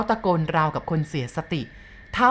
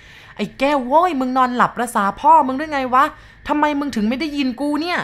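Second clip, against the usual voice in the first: high, loud exasperated yelling; bellowing yell; 8 semitones higher, 5 dB louder than usual. Acted. Driver shaking his sleeping mate and yelling at him in panic. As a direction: roar at him to wake up. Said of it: "แหกปากตะโกนลั่น".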